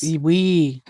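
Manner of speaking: playful mock-French reply; French accent. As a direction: answer in a put-on French accent. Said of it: "doing a French accent".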